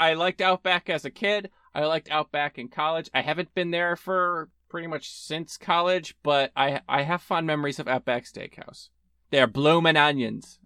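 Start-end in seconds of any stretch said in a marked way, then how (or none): 9.3-10.4 botched, failed fake Australian accent. Recalling fond memories of Outback Steakhouse, in a bad Australian accent. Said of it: "That was a terrible accent".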